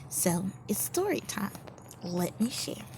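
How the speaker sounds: hushed invitation; soft whisper. Real, not acted. Preacher softly inviting the crowd into story time. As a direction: draw them in quietly. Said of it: "intro to story".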